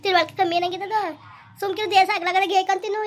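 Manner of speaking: loud, high-pitched telling-off; worked-up elder's reproach; exasperated scolding. Acted. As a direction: scold her out of her despair. Elder scolds the weeping young woman.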